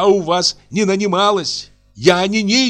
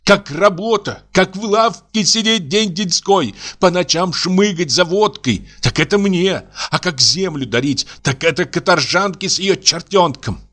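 much higher, furious ranting; Аксинья в ярости; 9 semitones higher than usual. A narrator's reading. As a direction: rage at the whole family. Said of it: "продолжала она". (гораздо выше, яростная брань)

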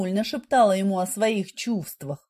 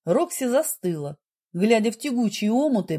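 ordinary delivery, nothing marked

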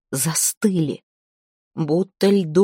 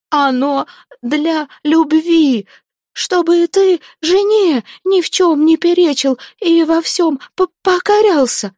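very high, loud, strained frightened plea; desperate high pleading; 11 semitones higher, 5 dB louder than usual. Acted. Zateya desperately justifies the potion to the dead man. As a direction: plead in panic, throat half closed.

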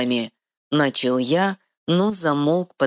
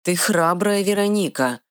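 admiring; 5 semitones higher than usual. Acted. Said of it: "восхитился я".

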